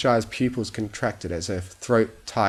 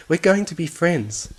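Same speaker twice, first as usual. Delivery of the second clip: higher coo, going stressed with a falling end; insistent coo; 9 semitones higher, 4 dB louder than usual. Acted. Fluttershy insists to the bunny, higher, going stressed. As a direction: press the promise on the bunny.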